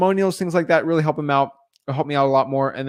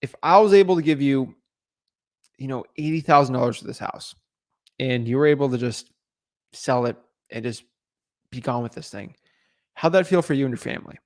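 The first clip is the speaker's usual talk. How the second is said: empathetic offer. Acted. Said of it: "they talk about it and say".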